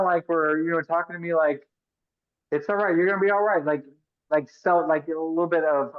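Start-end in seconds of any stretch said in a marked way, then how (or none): 2.5-3.6 higher-pitched imitation of placating experts; patronizing reassurance. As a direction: soothe like a verbal pat on the back, mockingly. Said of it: "a little, like, pat on the back".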